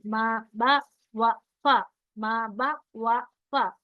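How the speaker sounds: मा, बा, वा, फा with each long आ held one count, loud; drawn-out alif demo. Shown as a demonstration. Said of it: "ये देखिए".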